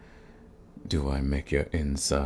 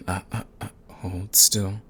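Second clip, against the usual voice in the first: teasing whisper; 3 semitones higher than usual. Acted.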